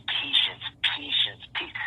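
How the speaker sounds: whispery fake nerd imitation; Bill Gates. Guest repeating his word to the host, mock nerd voice. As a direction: repeat it mockingly in a little nerd voice. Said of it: "his little fake nerd voice".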